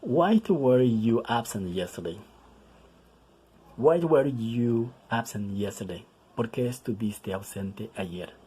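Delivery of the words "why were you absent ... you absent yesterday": slow, careful English model reading; teacher modelling a question slowly; slow model sentence. Shown as a demonstration. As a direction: read it slowly for the class. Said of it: "For example".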